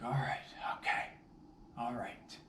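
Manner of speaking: whispered relief; relieved whisper. Retold or imitated. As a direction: breathe it out, relieved. Relieved after catching dog.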